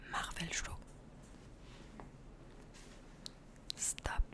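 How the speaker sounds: soft, voiceless ASMR whisper. Pretend. Streamer playing at ASMR for viewers, whispered. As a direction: whisper each word on its own. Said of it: "Whispering in French".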